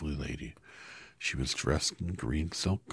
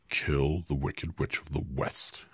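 slow, heavy wizard's order; grave command; 3 dB louder, slower than usual. Acted. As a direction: give the order slowly and gravely. Oz gives the task.

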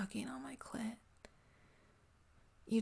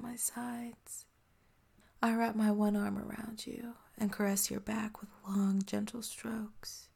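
ASMR whisper. Acted. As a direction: breathe every word close to the mic.

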